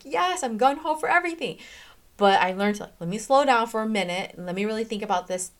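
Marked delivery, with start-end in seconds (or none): 0.0-1.6 eager yes. Retold or imitated. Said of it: "I'm like".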